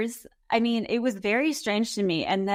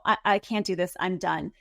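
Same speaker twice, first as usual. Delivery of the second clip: mock dramatic exit; 3 semitones lower than usual. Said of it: "dramatically saying".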